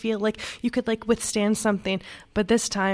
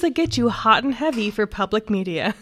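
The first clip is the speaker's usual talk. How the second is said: radio voice. Acted. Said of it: "Your radio voice when you say that".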